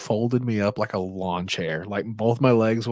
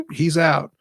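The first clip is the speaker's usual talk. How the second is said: ref calling out; 6 semitones higher, 6 dB louder than usual. Retold or imitated.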